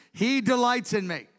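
high, joyful proclamation; emphatic declaration. Acted. David declares God's delight to everyone, jubilant and emphatic. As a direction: proclaim it with conviction.

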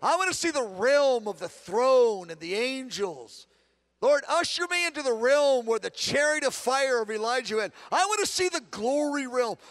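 eager prayer to see glory; fervent prayer. Shown as a demonstration. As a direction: plead with rising passion. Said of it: "I say".

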